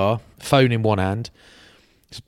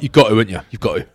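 laughing; 3 dB louder, slower than usual. Retold or imitated. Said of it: "he's like".

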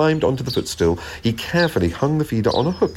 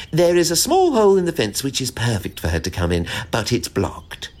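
squirrel voice; 3 semitones higher than usual. Acted.

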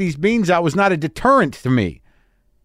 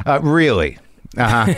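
condescending; 2 semitones lower than usual. Shown as a demonstration. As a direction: talk down to him. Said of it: "this is the condescending tone".

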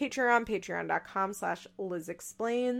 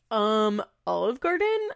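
mock disbelief; 4 dB louder than usual. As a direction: echo it back in disbelief. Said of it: "mocking the answer".

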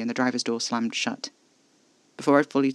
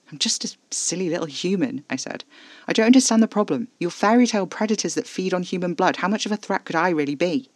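higher, louder, incredulous; mock self-deprecation; 6 semitones higher, 4 dB louder than usual. A narrator's reading. Narrator teasing Casper, incredulous and higher. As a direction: scoff at the danger.

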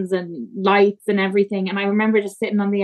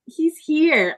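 awed whisper-like; 7 semitones higher than usual. Retold or imitated. First seeing her baby.

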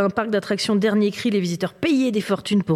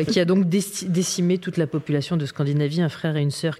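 movie trailer voice; 4 semitones lower than usual. Shown as a demonstration. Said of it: "c'est ma meilleure voix de trailer".

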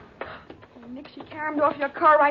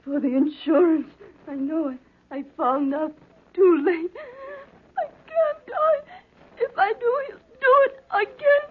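dying, tearful warning. Acted. Dying woman telling Nick about her husband, crying. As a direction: sob out the truth before it's too late.

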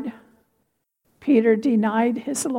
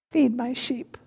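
simply; 5 dB quieter than usual. A narrator's reading. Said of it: "And Jesus says simply".

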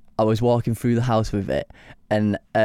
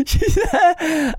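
much higher, squeaky, mock-cute voice; silly high voice; 3 dB louder than usual. Shown as a demonstration. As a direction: squeak it out as a joke.

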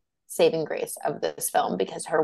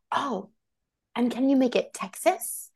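imagined polite request; 7 semitones higher than usual. Retold or imitated. Film-makers asking her about the Texas accent, mock polite request. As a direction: lightly put on a higher asking voice.

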